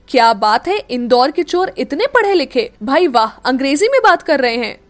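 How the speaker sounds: loud, sarcastic taunt; mock him with a sneer in the voice; jeering at the so-called thief. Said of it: "Meera ने ताना मारते हुए कहा".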